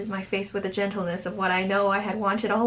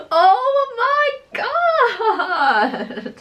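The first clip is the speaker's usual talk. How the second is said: very high, loud, long-drawn shriek; mortified wail; 7 dB louder, much slower than usual. Real, not acted. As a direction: wail it out in stretched disbelief. Mortified reaction to own story.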